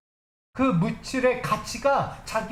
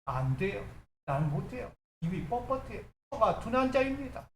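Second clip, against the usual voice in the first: making excuses; 4 dB quieter than usual. Acted. Preacher as Moses excusing himself from God's call, meek excuses. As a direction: beg off meekly as a reluctant Moses. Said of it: "아직도 변명하기 바빠요".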